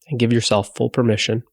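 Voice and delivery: unhurried body-scan guidance with long pauses; guided meditation. Acted. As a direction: ease them into relaxation, leaving long silences between phrases.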